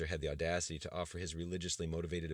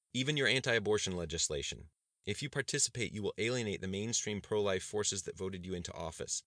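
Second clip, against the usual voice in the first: higher, louder earnest warning; earnest warning aide; 3 semitones higher, 3 dB louder than usual. Acted. Cabinet member warns the governor against the rally, urgent.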